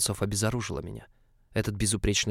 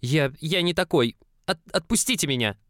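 panicked pleading; 7 semitones higher, 4 dB louder than usual. Acted. Young man pleads to be released.

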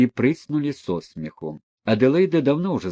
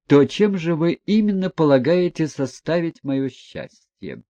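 higher, louder, crisp and haughty; mock-formal questioning; 5 semitones higher, 4 dB louder than usual. Aglaya questioning the prince before everyone, haughty. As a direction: interrogate him like an examiner.

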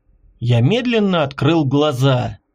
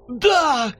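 shout; 9 semitones higher than usual. A narrator's reading. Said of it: "крикнул Николай Иванович".

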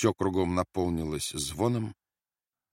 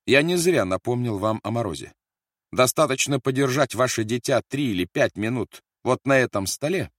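louder, higher, forceful warning; menacing threat; 5 semitones higher, 6 dB louder than usual. A narrator's reading. Officer threatens to freeze a prisoner's child, menacing. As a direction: press the threat on a captive mother.

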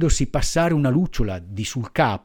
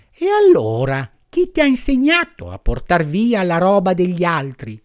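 pitying firefly; 4 semitones higher than usual. Acted. Firefly scolds gently.

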